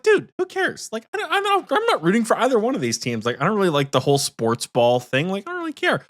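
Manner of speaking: high, fast careless bro voice; brushing it off like a frat bro. Retold or imitated. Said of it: "He's like".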